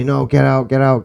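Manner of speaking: high, loud mock yell of get out; imitating a screamed order to leave; retold scream. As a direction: shout her off like she's in labour pain. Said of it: "scream at me".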